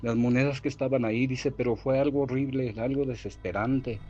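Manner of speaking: a hint of panic in a retold fright; terrified telling. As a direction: Beto telling his cousins what happened, mildly frightened. Terrified Beto tells cousins.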